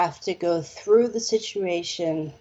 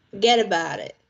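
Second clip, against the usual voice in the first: light Brooklyn turn of phrase; a hint of New York Brooklyn; Brooklyn accent; faster than usual. Shown as a demonstration. Prompting Richard to talk Brooklyn or Queens, Brooklyn accent. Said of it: "try to talk Brooklyn".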